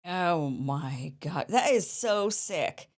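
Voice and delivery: slow, drawn-out disgust. Real, not acted. Host reacting to the clip, slow real disgust. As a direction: let the disgust drag out slowly.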